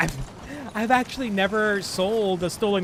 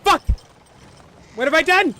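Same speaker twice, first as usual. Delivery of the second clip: dismayed cry; 10 semitones higher, 8 dB louder, faster than usual. Real, not acted. Just wrecked the stolen wagon.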